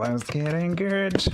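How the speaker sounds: strained and slow with effort; effort grunt. Real, not acted. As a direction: push the words out through exertion. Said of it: "I'm grunting like a tennis player".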